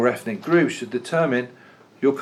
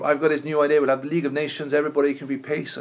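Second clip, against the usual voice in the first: higher, hammed-up American accent; Woodrow Wilson in a terrible American accent; 5 semitones higher, faster than usual. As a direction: keep the bad American accent going, eager and upbeat. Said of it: "It's a terrible American accent".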